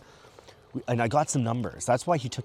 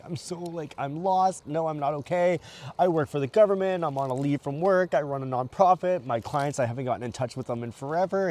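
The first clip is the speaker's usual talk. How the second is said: higher, upset retelling of breaking down; retold panic; 5 semitones higher than usual. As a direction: voice pitched up, lost and overwhelmed. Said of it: "I'm like".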